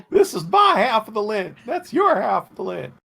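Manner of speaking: character voice. Acted. Joke quote in character voice.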